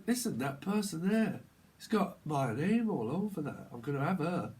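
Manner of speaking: lightly put-on northern English threat; northern English grievance; northern accent. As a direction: warn them in a northern accent. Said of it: "do I keep speaking northern".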